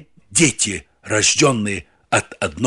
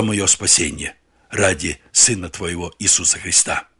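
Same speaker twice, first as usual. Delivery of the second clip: gentle spoken prayer to repeat after; a lead-in prayer for listeners to echo; 3 semitones lower than usual. Shown as a demonstration. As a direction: pray it aloud, humble and unhurried. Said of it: "Повторяй за мной вот эти простые слова".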